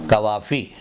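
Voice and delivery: "कवाफ़ी" with plain front k; everyday k at the start of "कवाफ़ी"; wrong pronunciation. Shown as a demonstration. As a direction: say "कवाफ़ी" as kavafi. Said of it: "ये कवाफ़ी बोलना गलत है".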